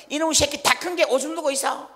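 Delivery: high, loud furious scolding; scolding parent. Retold or imitated. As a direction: yell at the child who wet himself. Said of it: "엄마 아버지는 뭐란가 하면".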